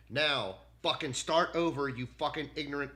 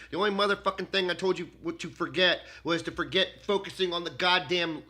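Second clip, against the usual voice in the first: furious loud shouting rant; loud furious tirade at the AI; angry; 6 dB louder than usual. Real, not acted. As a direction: yell every insult at the machine.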